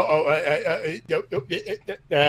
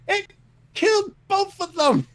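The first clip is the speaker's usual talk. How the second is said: outraged ranting. Real, not acted. Outraged ranting after kill.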